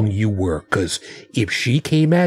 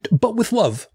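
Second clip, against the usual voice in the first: sweet afterthought; 10 semitones higher than usual. Acted. Sweetened twist after harsh words.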